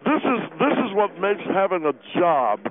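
talking with mouth full; words around a mouthful. Acted. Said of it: "impolite to talk with your mouth full".

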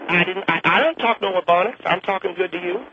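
put-on defensive old Southern woman; Clara Bingham voice. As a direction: insist like a cranky old lady. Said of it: "that was me doing her voice".

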